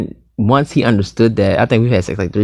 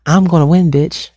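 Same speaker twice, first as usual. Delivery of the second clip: gloating laugh; 6 semitones higher than usual. Acted. Gloating about winning the power game.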